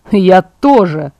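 slow, relishing gloat. Acted. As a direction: savour it like you can't wait for a fight. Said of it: "злорадствовал Эммет".

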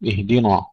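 اهدنا ending in thick, backed "na"; wrongly heavy nun. Shown as a demonstration. Teacher demonstrating common mistake, heavy nun in اهدنا. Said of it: "بتفخيم النون".

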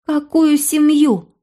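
put-on high, slow outraged girl; indignant girl. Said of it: "возмутилась".

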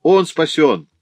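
high, loud cry of relief; triumphant exclamation. A narrator's reading. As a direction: burst out with the good news. Doctor announces the patient is saved.

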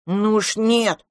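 high, slow, drawn-out refusal; little dragon protesting; objecting little dragon. A narrator's reading. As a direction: butt in like an indignant small child. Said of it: "вмешался дракончик".

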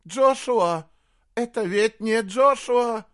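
high, loud tearful plea; frightened cry. Acted. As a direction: cry out fearing for her son. Woman in tears fears for prince. (испуганный крик сквозь слёзы)

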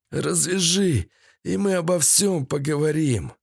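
high-voiced captive bargaining; Седой. A narrator's reading. Captive bargains with his captor.

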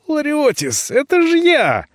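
put-on high girlish plea; a young girl crying out to a friend; high pleading girl; girl's voice. Belyanka's voice, pleading.

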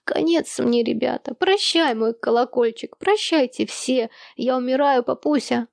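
hammed-up high-pitched dying goodbye; mock dying farewell. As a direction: play it like a melodramatic death scene. Twins pretend to be dying.

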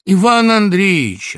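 high, loud, drawn-out call; anxious calling into silence. A narrator's reading. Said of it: "позвала она".

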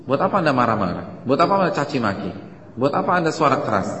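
rising rhetorical challenge, apa stressed; preacher scolding the crowd against angry advice; emphatic questions. Shown as a demonstration. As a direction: press each buat apa harder. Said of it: "Apa alasan Anda suara tinggi".

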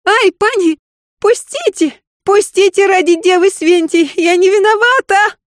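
very high, pained begging; terrified maid crying out. Acted. Maid begs her lady to let go, terrified. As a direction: squeal for mercy in pain. Maid being pulled by hair.

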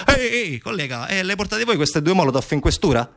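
high-pitched call, then a casual request; hey-you hail dropping to an offhand ask; hailing a colleague. Acted. Officers stop passing jeep with Molotovs, hailing.

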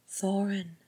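light, soft-edged coaxing; gentle. A narrator's reading. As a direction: call the name tenderly. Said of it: "said Rhys gently".

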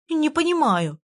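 put-on fairy scared by the girl's tears; frightened chatter. A narrator's reading. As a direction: rattle it off scared. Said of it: "испуганно тараторила она".

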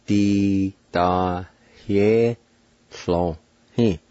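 "Di da ye so he" in slow syllables with short gaps; "Di da ye so he" measured out for learners; careful pronunciation demo. Shown as a demonstration. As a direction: say "Di da ye so he" slowly, partly joined. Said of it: "It's pronounced like this".

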